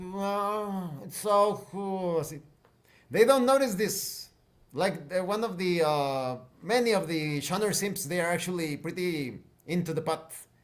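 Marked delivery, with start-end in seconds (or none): 0.0-2.2 very slow, mellow, relaxed stoner drawl. Speaker describes how pot addicts in science fiction talk, imitating a very relaxed stoner. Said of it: "they start to talk like this, you know, mm, very relaxed".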